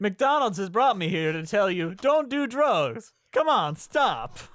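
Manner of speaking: lightly voiced celebrity PSA spokesman; Michael Jordan. Athlete telling kids no drugs, mock PSA. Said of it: "to quote Michael Jordan".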